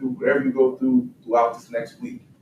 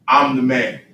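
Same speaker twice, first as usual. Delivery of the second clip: bold declaration; 6 dB louder than usual. Shown as a demonstration. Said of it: "Go ahead and tell everybody".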